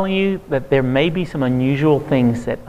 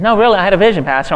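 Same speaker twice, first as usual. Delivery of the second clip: earnest insisting; 5 semitones higher, 3 dB louder, much faster than usual. Retold or imitated. Retold man insisting he saw vision.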